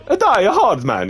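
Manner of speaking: high, loud, slow A Die Hard Man; corrected take. Acted. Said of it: "Yeah, that's better".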